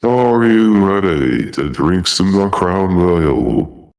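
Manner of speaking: arena announcer hype. Shown as a demonstration. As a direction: hype the crowd like a stadium announcer. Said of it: "it sounds like you're an announcer".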